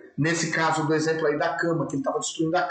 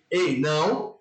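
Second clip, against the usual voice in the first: lower-pitched firm correction to a dog; firm scolding; 3 semitones lower, much slower than usual. Shown as a demonstration. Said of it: "Mudava o meu tom de voz".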